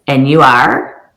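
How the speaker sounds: loud, drawn-out open question; leading prompt. Shown as a demonstration. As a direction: stretch it out, inviting them to fill in the name. Models prompting a guest for name.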